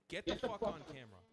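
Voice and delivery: rally every viewer to grab a camera; rallying war cry. Real, not acted. YouTuber calling on Jewish viewers, a loud rallying cry. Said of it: "this is a war cry".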